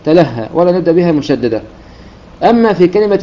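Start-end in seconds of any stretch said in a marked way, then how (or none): 0.1-0.5 تلهى begun with a single t, "talahha"; light single taa. Shown as a demonstration. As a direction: start تلهى lightly, no doubling of the t. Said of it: "نبدأ بها مخففة".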